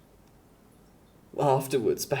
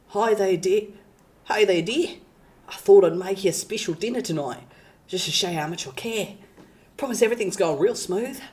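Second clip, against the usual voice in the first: put-on higher, fast British boyfriend ASMR; 4 semitones higher, faster than usual. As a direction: coo it in a British accent. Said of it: "British A S M R".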